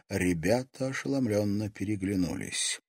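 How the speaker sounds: ordinary delivery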